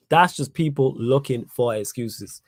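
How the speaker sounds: drawn out, word by word; slow right down to drive the point home; deliberate, measured restatement; slow emphatic repeat. Real, not acted. Repeats the line slowly for emphasis.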